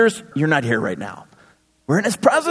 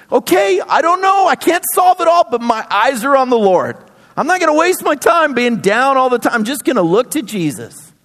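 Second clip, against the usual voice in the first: resolute believer; 5 semitones higher than usual. Pretend. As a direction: shrug it off and fix your eyes up.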